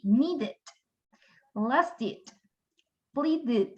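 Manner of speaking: "needed, lasted, pleaded" with an "id" ending; pronounced ED syllable. Shown as a demonstration. Teacher correcting the ending for learners, pronounced ED syllable. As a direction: give each word a second syllable, "id". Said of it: "sino E D".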